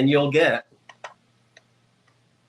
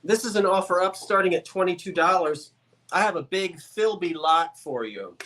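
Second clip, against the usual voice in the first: talking around a peppermint; candy in the mouth, slightly muffled; mouth full. Real, not acted. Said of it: "I just put a peppermint in my mouth".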